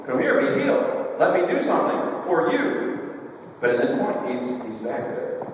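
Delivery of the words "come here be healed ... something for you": much higher, bright inviting tone; sweet welcoming Jesus. Retold or imitated. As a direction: lift the voice high, all welcome. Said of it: "I responded back".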